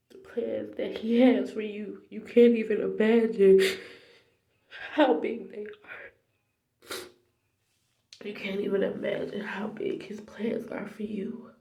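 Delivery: tearful, overcome testimony; real crying. Real, not acted. Tells viewers of God's plans for them, crying. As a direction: preach through real tears, voice giving way. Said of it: "I'm crying like a big baby".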